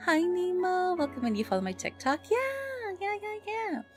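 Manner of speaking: ordinary talk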